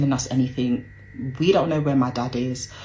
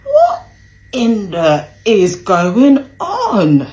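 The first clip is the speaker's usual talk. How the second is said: shrieked high and loud, dragged out slowly; a stunned, far higher cry of what on earth; shocked disbelief; 7 semitones higher, 10 dB louder, much slower than usual. Retold or imitated. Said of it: "So I was like".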